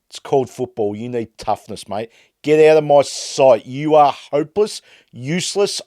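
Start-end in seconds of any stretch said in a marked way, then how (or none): 2.4-5.8 louder snap of get out; furious get out of my sight; angry dismissal. Real, not acted. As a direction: throw him out. Ranting dismissal of player.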